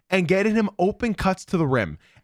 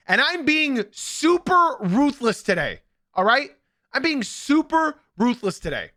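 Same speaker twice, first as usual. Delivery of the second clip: mock ruthless hype; 6 semitones higher than usual. Real, not acted. Hyping losers segment.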